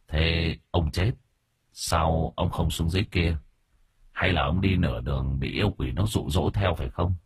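grave exorcist's measured questions; stern spirit master. Acted.

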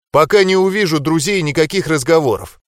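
firm cutting reply; curt. Acted. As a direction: shut it down bluntly. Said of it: "Отрезал".

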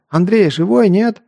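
loud, high worried call. A narrator's reading. Artur calling out to wounded Andrey. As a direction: shout his name into the bushes.

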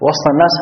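وسط as wasTa, no vowel after s; sukun on the seen. Shown as a demonstration. Teacher equating it with "among people", unvowelled seen in وسط. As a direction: close the seen of وسط before الناس. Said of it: "هنا تسكن السين".

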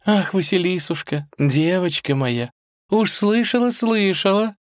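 mild motherly wail; lamenting old cook. Acted. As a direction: coo over her darling girl. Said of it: "запричитала она".

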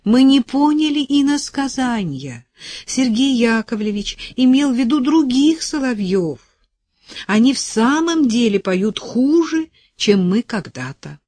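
put-on elderly singer declaiming, high and animated; impassioned high-pitched appeal; exclaiming. A narrator's reading. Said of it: "воскликнула пожилая певица".

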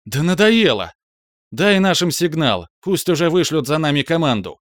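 громко, высоко, на взводе; сорвись от нетерпения; нервно. A narrator's reading. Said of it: "нервно ответила она". (Иви нервно и громко отвечает Рискару)

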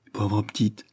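softly moved pity; tender, moved murmur of pity. A narrator's reading. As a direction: say it with a catch of feeling. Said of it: "émue".

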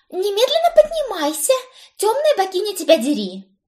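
shrill high yell to wake the house. A narrator's reading. Cousin yelling them out of bed, loud and high. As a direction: scream her awake, high and loud. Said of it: "завопила Брит".

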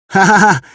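loud high laugh, doubled over; belly laugh. Acted. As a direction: hoot with laughter at the sight. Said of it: "Тихий уже за живот держался".

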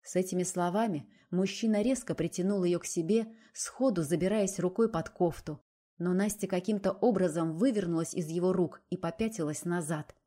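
ordinary delivery, nothing marked

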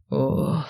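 soft, low exhale. A narrator's reading. Necromancer echoing her exhale, soft and low. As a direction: let out a quiet mock puff. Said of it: "в тон мне выдохнул некромант".

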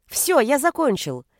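put-on high, excited little-boy call; child's shout. A narrator's reading. Son bolting from dinner table, shouting. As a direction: announce it like a boy escaping. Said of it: "и выкрикнул".

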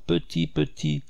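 high, coaxing call to a little bird; high gentle bird call. Acted. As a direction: sing it out high to coax the bird. Calling the tame bird.

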